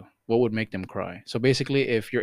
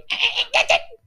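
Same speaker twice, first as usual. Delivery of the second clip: mock angry cat. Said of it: "she just gets pissed off".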